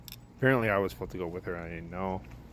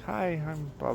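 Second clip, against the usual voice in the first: quoted greeting; 8 semitones higher than usual. Retold or imitated. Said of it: "I'm like".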